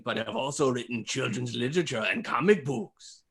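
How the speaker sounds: put-on, inexact German accent; mock German accent. Host giving clues as a game designer, mock German accent. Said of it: "getting into my German accent again".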